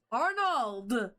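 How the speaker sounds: drawn-out calling, little extra volume; mild mock yell. Bartender calls his husband from the back, mock yell. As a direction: call out the name without really shouting. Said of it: "Ulrich does yell out".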